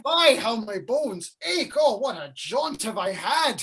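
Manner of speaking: weary and aching. Acted. Nurse stalling impatient Juliet, weary and aching. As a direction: moan about every aching bone. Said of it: "I am a weary".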